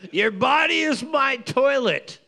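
barely getting the words out for laughing. Real, not acted.

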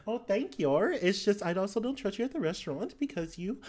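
put-on quick, swooping Australian-accented reproach; player's character, exasperated. Character explaining distrust to companion, exasperated scolding. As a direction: scold them politely in an animated Australian lilt.

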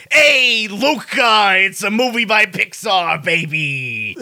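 imitating Scorsese. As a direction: bark it like a brash New York director, lightly. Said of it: "Martin Scorsese says".

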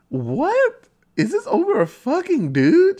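put-on high, incredulous girly voice; mocking Tree's outrage. Voicing Tree scoffing at her roommate, in a high incredulous voice. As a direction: squeal it in disbelief.

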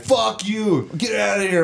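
high-pitched retold outburst; mock angry dismissal. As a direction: imitate a guard throwing you out. Guard throws him out.

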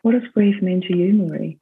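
gently measured question, with pauses; imitating a counsellor's unhurried calm. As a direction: ask it calmly, as a counsellor would. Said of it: "so calmly and said".

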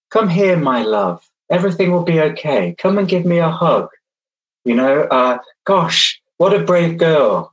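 gentle, kind reassurance; soft gentle voice. Shown as a demonstration. To a child reaching for a plug socket: misplaced soft gentle comfort. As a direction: coax the child softly. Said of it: "Soft, gentle voice tone".

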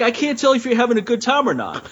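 high-pitched drunk-girl imitation. Drunk woman quizzing a man at a concert, mock drunk girl. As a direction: whine it way up like an annoying drunk woman. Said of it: "six octaves higher".

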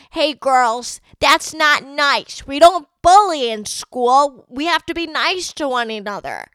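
high, prissy mock teacher lecture, slow and sing-song; sarcastically imitating the principal scolding bullies. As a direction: parody a preachy school official. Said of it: "talk to them and say".

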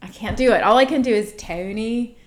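lightly put-on Philly accent; mock Philly guy calling; a hint of Philly accent; Philadelphia accent. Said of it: "call you and just be like".

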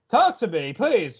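half-serious needy whine; retold pleading. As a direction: beg a little, lightly acted. Voicing lonely wife pleading.

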